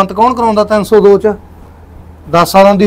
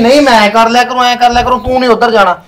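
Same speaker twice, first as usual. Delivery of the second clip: higher, heated reply; angry; 4 semitones higher than usual. Acted. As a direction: insist irritably that he was being nice. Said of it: "ਇੰਨੇ ਗੁੱਸੇ ਹੋਣ ਵਾਲੀ ਤਾਂ ਵਜ੍ਹਾ ਹੀ ਨਹੀਂ". (ਖਿਝ ਕੇ ਗੁੱਸੇ ਵਿੱਚ ਬੋਲਣਾ)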